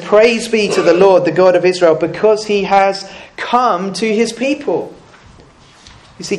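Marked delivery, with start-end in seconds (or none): 0.0-4.9 proclaiming praise. Retold or imitated. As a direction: call it out like a psalm. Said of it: "but he says".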